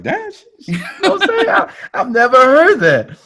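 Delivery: high-pitched laughing exclamation. Retold or imitated. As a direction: giggle out delighted surprise. Amused reaction to her bio.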